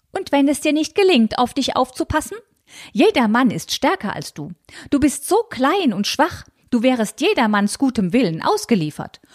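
high, fussy, scandalized aunt voice; high fretful aunt clutching pearls; prim old aunt. Acted. Tante Malchen voiced in reading.

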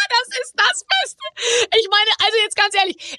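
high, slow words through laughter; laughing. Real, not acted. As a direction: laugh while getting the words out. Laughing at Ochsenknecht story.

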